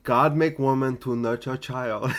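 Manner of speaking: put-on East Asian accent with broken grammar; a hint of East Asian accent, laughing. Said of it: "you sound so Asian".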